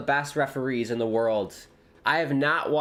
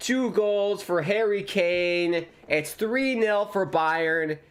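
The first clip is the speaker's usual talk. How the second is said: slow, higher announcement of the score; triumphant; 5 semitones higher, slower than usual. Real, not acted. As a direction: savour every word of the scoreline. Reporting the goal after celebration.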